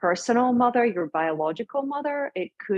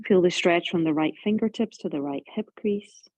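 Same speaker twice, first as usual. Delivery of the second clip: unhurried yoga instruction, pausing between phrases; guided relaxation. Real, not acted. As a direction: ease them calmly into the stretch.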